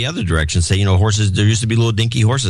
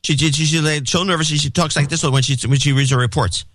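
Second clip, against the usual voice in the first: higher, fast nervous imitation; imitating fast nervous talk; 5 semitones higher than usual. Co-host mimicking the reporter's nervous rush, higher and faster. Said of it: "she started to talk real fast like this".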